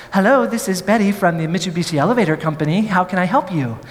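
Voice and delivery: fast, chirpy hint of a kind phone operator; sweet operator voice. The elevator company operator answers the emergency call, lightly sweet and quick. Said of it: "very sweet, very kind voice".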